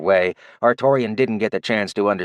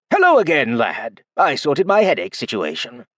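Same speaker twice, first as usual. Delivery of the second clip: lightly voiced chipper old man, pitched up; cheery old man; 5 semitones higher, 3 dB louder than usual. Artorian greeting the poultice carrier, lightly voiced and cheery. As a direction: greet him pleasantly, all innocence.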